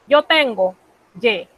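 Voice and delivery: ye with an open vowel like Spanish E; open French ai. Shown as a demonstration. Teacher demonstrating j'ai, open vowel. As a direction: demo the open sound of ye. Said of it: "suena más o menos así".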